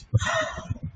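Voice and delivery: put-on sharp high child gasp; a quick startled intake of breath; surprised gasp. A narrator's reading. Child sees mommy's tear.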